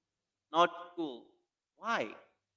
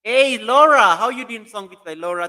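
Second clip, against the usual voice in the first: much higher and louder hello; excited greeting; 8 semitones higher, 13 dB louder than usual. Real, not acted. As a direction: call out to her across the room. Greeting a viewer on livestream.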